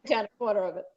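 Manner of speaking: author reading her story aloud; story narration. A narrator's reading. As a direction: read the passage as a measured narrator. Reads own fiction aloud.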